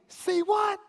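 high incredulous say what. Retold or imitated. Translating his shock for the congregation, high and incredulous. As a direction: lean hard on what in disbelief. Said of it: "This is like saying".

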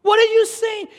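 loud, high, disbelieving shout; high shouted comeback, mock outrage; incredulous yell. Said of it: "I wanna scream, I wanna yell".

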